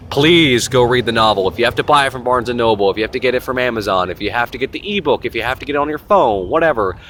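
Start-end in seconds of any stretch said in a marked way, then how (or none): 0.1-1.5 stretched, louder, insistent begging; emphatic plea. Real, not acted. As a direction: really implore them, drawing out the please. Begging viewers to read it.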